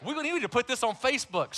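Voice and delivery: a mother's excited laugh; mom laughing. Retold or imitated. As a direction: play the mom giggling with delight. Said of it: "She said".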